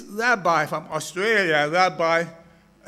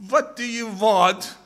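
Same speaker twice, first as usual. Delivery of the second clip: Japanese doorkeeper; 4 semitones higher, 3 dB louder than usual. Acted. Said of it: "a Japanese fella opens the door".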